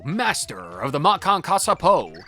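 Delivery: grand introduction. Acted. Character introduces self.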